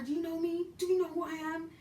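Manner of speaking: high, precise Kenyan English demand; high Kenyan accent. Retold or imitated. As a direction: enunciate each word like a Kenyan lady. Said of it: "she gets out the car".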